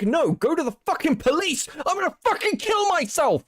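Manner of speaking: high, mocking whine reading his words; mock him in a high whiny voice; squeaky mocking impression of his texts.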